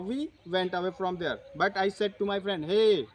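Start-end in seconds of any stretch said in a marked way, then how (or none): 2.7-3.1 a sudden loud hey to grab attention; urgent call out. Retold or imitated. Calling his friend to stop and listen, loud sharp hey.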